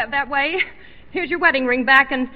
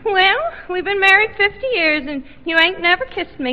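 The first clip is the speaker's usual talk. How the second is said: put-on higher-pitched old country wife; 5 semitones higher than usual. Old wife complains of never being kissed, higher old-woman voice. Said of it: "here's the old couple".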